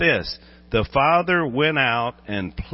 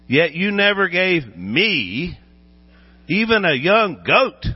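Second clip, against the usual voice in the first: resentful complaint; 7 semitones higher, 5 dB louder, slower than usual. Acted. Older brother's resentful complaint.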